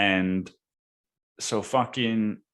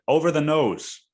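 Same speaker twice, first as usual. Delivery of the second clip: quoting the driver; 7 semitones higher, 5 dB louder than usual. Retold or imitated. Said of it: "And he said".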